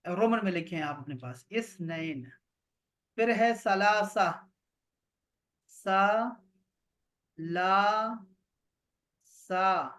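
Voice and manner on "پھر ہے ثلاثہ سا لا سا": ثلاثہ said slowly, then broken into سا، لا، سا; syllable by syllable. Shown as a demonstration. Teacher breaks ثلاثہ into syllables for students. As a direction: spell out ثلاثہ one syllable at a time. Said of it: "تین کو بولتے ہیں".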